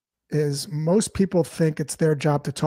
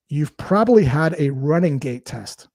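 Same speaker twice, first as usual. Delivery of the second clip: slow quoted line; slower than usual. Retold or imitated. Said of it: "And then she said this".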